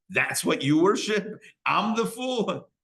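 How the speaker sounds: indignant retort, rising high on the last words; mock-incredulous, drawn out at the end. Avram challenging his father about idols, incredulous.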